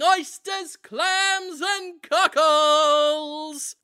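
high, loud hawker's call, dragged out slowly; vendor yelling. Pretend. Conrad yells to the audience selling seafood. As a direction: cry out the wares like a market seller.

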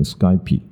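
Skype said slowly with silent final e; correct Skype. Shown as a demonstration. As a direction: model Skype as one syllable. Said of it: "很多人会念成Skype".

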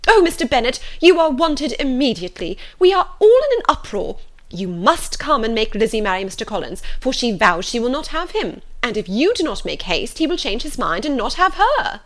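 high, loud cry for help; flustered mother in an uproar; agitated calling out. A narrator's reading. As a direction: burst in calling urgently to a husband. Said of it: "called out as she entered the library".

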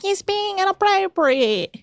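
put-on failing New Zealand pirate accent; hammed-up Kiwi pirate voice. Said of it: "trying to do, like, a New Zealand pirate accent".

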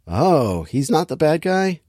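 mock surprise. Viewer reacting to yet another plot twist, mock surprise. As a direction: feign being taken in by the twist.

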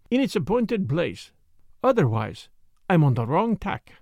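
muttering to himself. Acted. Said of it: "He was muttering to himself again".

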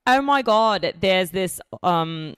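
light put-on Australian accent. Australian friend pitching a Jewish guy, lightly imitated Australian accent. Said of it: "That was my Australian accent".

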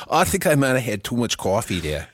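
composed mock New York accent; put-on New York accent. Admitting too much coffee in character, put-on New York accent. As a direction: repeat it as a comic New Yorker. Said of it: "to actually do this accent right".

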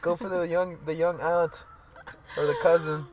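high, loud mock family voice; mock relative. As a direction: ham up a protective relative.

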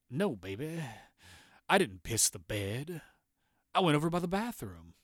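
a hint of a mumbling, soothing husband; John lightly voiced, soothing his angry wife; drowsy husband. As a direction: placate her lightly, half-asleep. John calmly answers his wife.

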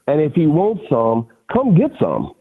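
a retold fight-talk dare, half shouted; defiant taunt. Quoting his taunt to the reporter.

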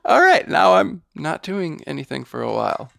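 high, laughing through it; laughing mock voice. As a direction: giggle out the words.

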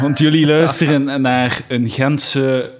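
slow, grand announcing; mock pompous. Host addresses West Flemish listeners with slow mock grandeur. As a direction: lay it on thick, slowly, mock-solemn.

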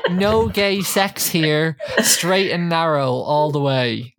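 slow, deliberate mock declaration; quoting the bouncer slowly. Podcaster mocking the bouncer's intro line, slow. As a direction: spell it out like a proud bouncer. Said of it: "He says".

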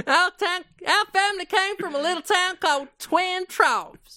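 high-pitched hammed-up Southern twang; Southern accent. Gummidge recounting the family's origins, high Southern twang. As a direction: tell family history as a Southern hick.

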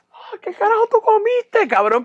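hammed-up gagged outrage; choking disgust. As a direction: cough out the words in disgust. Gagging, retold outrage.

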